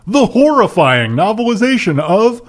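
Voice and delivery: dramatic promo read of book titles; hammed-up trailer announcer; mock announcer. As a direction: stretch each title, race the blurb. Reads out list of titles.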